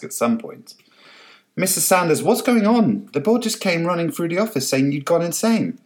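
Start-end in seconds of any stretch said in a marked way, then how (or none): 1.6-5.8 high, urgent and a touch out of breath; breathless. A narrator's reading. Assistant bursting into Francis's office, high breathless alarm. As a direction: rush it as if you ran here. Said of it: "said breathlessly from the doorway".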